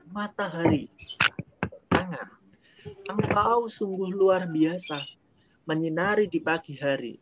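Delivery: expressive recitation. Shown as a demonstration. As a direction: recite it like a poem to the sun. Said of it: "Pakai suara, pakai penekanan". (membaca puisi dengan penuh penghayatan)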